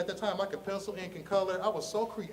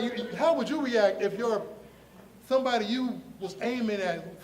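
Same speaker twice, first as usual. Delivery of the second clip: normal talking voice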